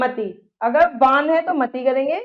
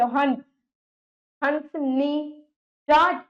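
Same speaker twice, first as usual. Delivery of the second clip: slow teaching demo; 4 dB quieter, slower than usual. Shown as a demonstration. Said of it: "कैसे देखिए".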